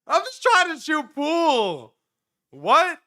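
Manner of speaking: very high, drawn-out mock whine; hammed-up high-pitched protest; exasperated plea. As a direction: wail it slowly in disbelief. Exasperated reaction to strange man.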